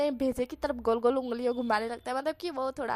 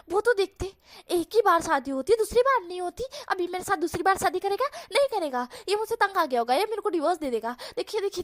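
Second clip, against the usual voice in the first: Wang Ji ranting; 2 semitones higher than usual. Acted. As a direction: rant theatrically to the parents. Wang Ji's long mocking rant.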